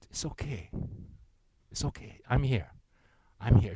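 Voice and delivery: put-on like a father soothing a scared child; gentle reassurance. God comforting a discouraged believer.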